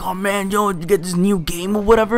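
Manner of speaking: high, eager mocking kid voice; mock nerdy kid. Mocking the game-obsessed kid to his viewers, eager and high. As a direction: lampoon the gamer kid's gush.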